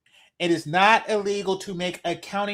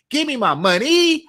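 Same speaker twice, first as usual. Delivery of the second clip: demanding shout; 4 semitones higher, 6 dB louder than usual. Pretend. Demanding payment in rant.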